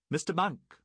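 high, loud call across deck. A narrator's reading. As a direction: call the master over. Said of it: "Treghughes called for".

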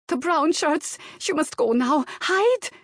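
put-on high, loud Slavic-accented warning; frantic Slavic accent. A narrator's reading. Maid warning employer to hide, panicked Slavic accent. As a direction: urge him to flee, thick Slavic accent. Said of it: "her strong Slavic accent".

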